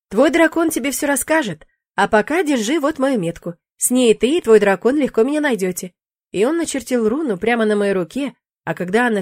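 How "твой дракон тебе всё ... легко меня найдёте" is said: a hint of a cocky demon, a touch louder; breezy demon shrugging it off; lightly voiced demon. Demon brushing off the witch's fear, lightly voiced.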